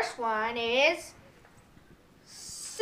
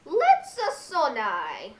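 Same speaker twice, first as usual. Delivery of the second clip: Mario voice; much slower than usual. Shown as a demonstration. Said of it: "this one talks like".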